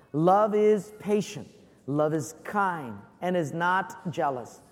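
slow, measured group reading; slow scripture reading. Acted. Pastor leads church reading Corinthians aloud, slow recitation. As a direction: read it out deliberately together.

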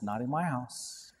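God refusing a demand, quiet and firm; God's stern voice. Retold or imitated. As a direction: say it low and final as God. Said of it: "And God says".

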